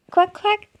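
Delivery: high, loud double quack; duck imitation. Mother teaching baby the duck, high loud quacking. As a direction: quack brightly like a toy duck.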